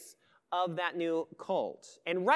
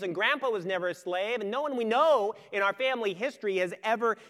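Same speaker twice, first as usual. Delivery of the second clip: a son arguing his point, louder and pushy; defiant son; 3 semitones higher, 5 dB louder than usual. Acted. Son argues with father that the past doesn't matter, lightly voiced defiant teen. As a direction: press the case like an indignant teenager.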